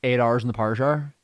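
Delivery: trying out a generic northern Irish accent. Shown as a demonstration. Echoing the co-host's phrase, northern Irish accent. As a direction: repeat it in an Ulster accent. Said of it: "a generic northern one".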